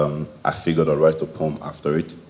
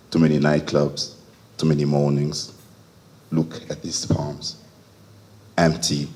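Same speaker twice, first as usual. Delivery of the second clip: deliberate, measured poem reading with weighted pauses; poetry recital. Acted. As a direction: read it as verse, phrase by phrase. Reads second poem aloud.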